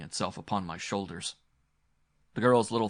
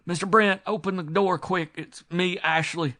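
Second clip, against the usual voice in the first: loud, high, pressing call; urgent call; 10 semitones higher, 8 dB louder than usual. A narrator's reading. Servant urges his employer to open quickly, loud calling. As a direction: hammer on the door with the voice.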